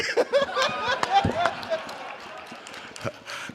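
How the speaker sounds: long laugh after a joke. Real, not acted. Laughing at own bit.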